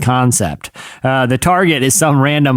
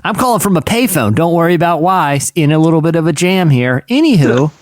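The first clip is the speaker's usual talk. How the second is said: lightly put-on casual caller; hint of an impression on a phone call; impression of a singer; 3 semitones higher than usual. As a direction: make a slightly raised, breezy excuse. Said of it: "how's your singer impression?".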